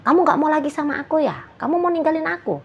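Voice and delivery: high, fast, clingy pleading; a frightened partner asking if you'll leave, high and rushed; hysterical partner. Retold or imitated. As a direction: beg like a panicking lover afraid of being left. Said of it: "agak-agak histeris".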